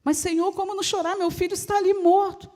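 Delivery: acted grief, mildly urgent; pleading mother. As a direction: plead with the Lord over a dead son. Bereaved mother protests to Jesus.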